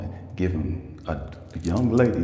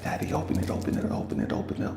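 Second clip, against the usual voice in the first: lightly voiced eager child, quick repeats; excited daughter; 5 semitones higher, faster than usual. Daughter begging Dad to open the note, mock excited. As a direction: imitate a kid pestering Dad excitedly. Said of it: "my daughter's excited about the".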